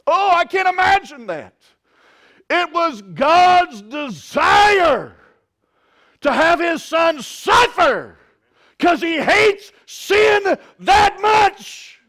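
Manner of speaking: high, loud, shouted preaching; preaching at full force. Acted. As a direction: climb into a shouting sermon peak. Preacher shouts about God's desire.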